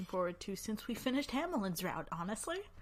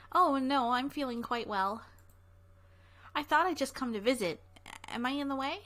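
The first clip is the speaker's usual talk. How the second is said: lightly voiced girl, louder and higher; a touch of a cheerful visiting girl; girl character; 4 semitones higher, 6 dB louder than usual. Reading girl's lines in dialogue.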